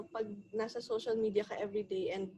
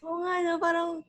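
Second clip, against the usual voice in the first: high, laughing reminiscence; laughing nostalgia; 8 semitones higher, 5 dB louder than usual. Real, not acted. Friends recalling silly old chats, laughing. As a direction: laugh through the memory.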